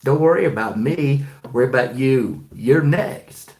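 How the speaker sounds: a loud, pointed warning to the listener; stern warning. Retold or imitated. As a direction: drive it home as a threat. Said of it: "And I say".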